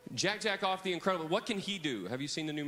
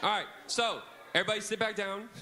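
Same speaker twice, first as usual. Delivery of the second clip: raised voice; 4 semitones higher, faster than usual. Real, not acted. Calling the room to order.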